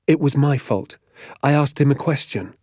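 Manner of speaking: lightly voiced boy owning up; pleading schoolboy. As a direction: plead gently with the teacher. Pupil owning up to angry teacher.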